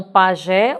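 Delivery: PAJÉ with an open final é; open E sound. Shown as a demonstration. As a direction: demonstrate the open, stressed é in pajé. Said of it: "o som é aberto".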